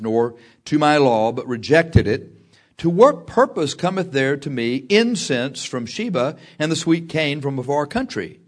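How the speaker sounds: measured, emphatic Bible reading; solemn verse read out with weighted key words; scripture reading. Acted. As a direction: proclaim the prophecy to the congregation. Reads scripture aloud to congregation.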